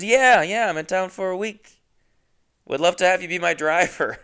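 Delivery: high, loud keen rider voice; mock enthusiastic passenger; imitating an eager passenger. Voicing passenger Lauren's eager reply.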